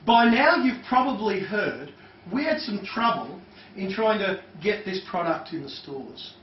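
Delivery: by now stretched slowly; slow emphasis on by now. Shown as a demonstration. Trainer reading the example slowly, stressing by now. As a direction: lean on by now to plant it. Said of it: "here's one".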